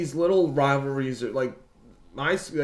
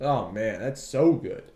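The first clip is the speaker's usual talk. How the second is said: normal talking voice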